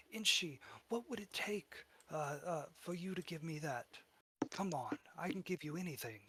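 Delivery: high, pleading goblin voice; friendly goblin. Acted. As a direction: wheedle and bargain in a high little voice. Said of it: "you hear that friendly voice".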